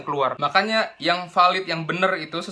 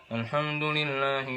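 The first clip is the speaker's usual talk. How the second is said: slow, much softer "Alhamdulillah" pushed into a falsely thick tone; forced thick voice; 2 semitones lower, 6 dB quieter, slower than usual. Shown as a demonstration. Teacher imitates a student forcing a thick murottal voice. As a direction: thicken your voice to copy a reciter. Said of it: "Ditebel-tebelin lah".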